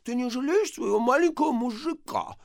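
put-on high, pouting little-boy plea; babyish whine. A narrator's reading. Husband pleading with his wife in baby talk. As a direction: lips pursed, whine like a child. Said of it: "свернувший уже привычные губы в трубочку".

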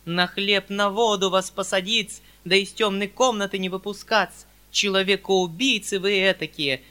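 understated furious hiss. Acted. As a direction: spit out the accusation. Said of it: "прошипела... дрожавшая от злости".

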